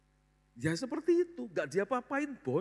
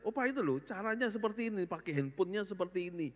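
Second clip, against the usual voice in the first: put-on lightly higher child's teaching voice; grandchild explaining; 4 semitones higher than usual. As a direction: kids patiently showing grandpa the phone. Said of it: "saya kadang-kadang sama anak-anak".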